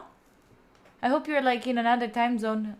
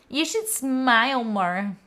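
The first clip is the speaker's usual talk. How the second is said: mock creepy advice; slower than usual. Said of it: "you go like".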